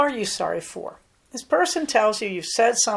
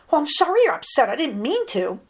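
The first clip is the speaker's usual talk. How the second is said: quick, higher brush-off apology; insincere apology; 6 semitones higher, 4 dB louder, faster than usual. Shown as a demonstration. Coach showing an apology that won't work, hurried and insincere. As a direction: rattle off the sorry louder and faster, without meaning it. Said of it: "That won't work as well as".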